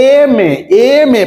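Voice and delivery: এম এ said slowly twice, opening clearly on "em"; teacher showing the class how এম এ begins; slow demo pronunciation. Shown as a demonstration. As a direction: repeat এম এ slowly, leaning on the "em" sound. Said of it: "কিন্তু উচ্চারণ কিসের?".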